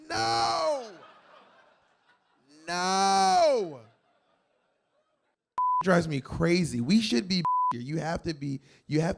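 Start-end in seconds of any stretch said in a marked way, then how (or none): 0.1-3.8 high, firm mock no; mock refusal. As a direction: refuse the peanuts with theatrical disgust. Refusing the steward's peanuts.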